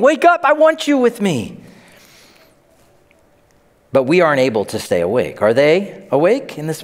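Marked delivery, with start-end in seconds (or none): 0.0-1.6 urgent call. Acted. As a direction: call it out high and pressing. Jesus urgently calling disciples.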